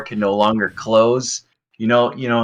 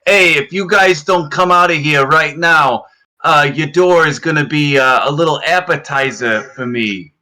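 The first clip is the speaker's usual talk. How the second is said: emulating guard voice; 5 semitones higher, 3 dB louder than usual. Acted. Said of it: "I attempt to emulate their voice pattern".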